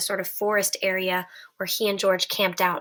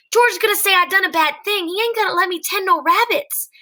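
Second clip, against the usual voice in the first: high, loud frightened wail; panicked; 9 semitones higher, 5 dB louder than usual. Acted. Lenny panicking.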